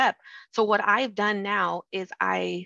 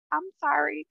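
a light, high-voiced apology; apologetic; 6 semitones higher than usual. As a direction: retell a sheepish little sorry, pitched up. Apologizing to husband in retold scene.

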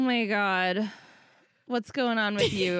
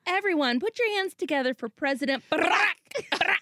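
mock announcer; 3 semitones higher than usual.

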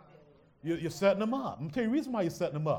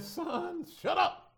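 stern father; 12 semitones higher, much slower than usual. Retold or imitated. Preacher voicing his father scolding him as a boy, mock stern. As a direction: play the dad cutting the boy off. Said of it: "my father would lay in on me".

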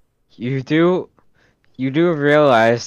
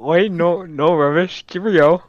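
mock British; 5 semitones higher, slower than usual. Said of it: "for British".

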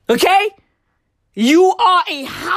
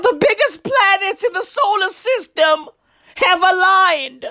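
higher, breathless mock panic over the planets; mock freaking out; 4 semitones higher than usual. Mocking people online freaking out, hammed-up awe. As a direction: ham up the starstruck gasping. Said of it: "Motherfuckers were out there freaking out".

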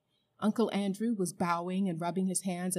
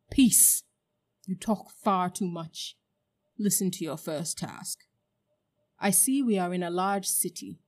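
imperious witch; 4 dB louder than usual. Acted. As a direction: command like a conqueror. Witch commanding her servant.

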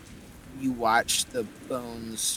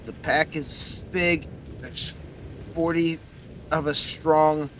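gruff Cockney skull; 2 semitones higher, 3 dB louder than usual. Acted. Winston's skull answers.

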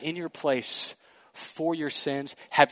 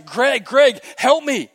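high, loud panicked call to a cousin; retold scream for help; 10 semitones higher, 9 dB louder, slower than usual. Boy sliding into a pond screams to his cousin for help. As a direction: yell for help as if slipping into the water. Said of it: "and I scream out to my cousin".

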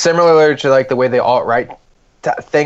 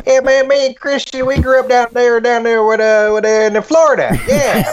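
much higher-pitched cartoon Southern-Hispanic accent; cartoonish accent; 11 semitones higher than usual. Imagined brother saying he grew up in Florida, cartoonish accent. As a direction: ramble in a high, hammed-up accent. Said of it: "A cartoonish version of the accent".

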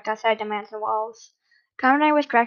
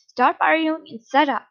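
raised, higher scolding voice; yelled; 5 semitones higher, 6 dB louder than usual. A narrator's reading. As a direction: order them loudly to stop. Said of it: "when he was yelling this".

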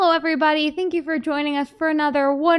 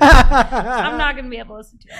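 louder, laughing repeat; 7 dB louder than usual. Real, not acted. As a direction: say it again half-laughing, louder. Embarrassed after singing.

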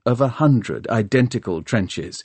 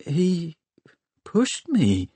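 high, hushed, halting disbelief; murmured amazement; 8 semitones higher, much slower than usual. A narrator's reading. Tom realises Valentine pushed him, murmured amazement. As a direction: let it dawn slowly, barely believing. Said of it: "murmured Tom, amazed".

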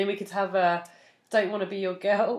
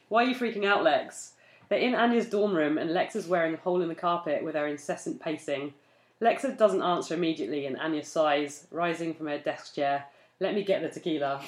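story reading; 4 semitones lower, 3 dB quieter than usual. Acted. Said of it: "Just be natural ... but just out loud".

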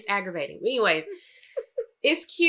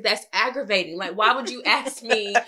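retold mild exasperation, rising in force; aggravated; 3 semitones higher, 4 dB louder than usual. Wife telling husband off over a silly question, aggravated. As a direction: retell an irritated comeback to your husband. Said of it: "I was so aggravated".

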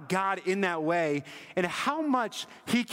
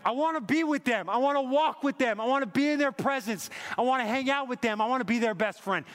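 God's eager longing; 5 semitones higher than usual. Retold or imitated. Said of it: "It says".

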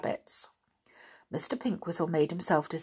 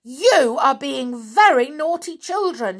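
loud, higher angry scold; 7 semitones higher, 6 dB louder than usual. A narrator's reading. Aunt scolding the children, loud angry telling-off. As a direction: tell them off sharply. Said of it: "she cried".

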